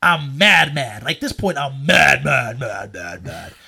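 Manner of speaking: dramatic low echo, fading away. Retold or imitated. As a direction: repeat it like a dying echo. Exaggerates anger as fading echo.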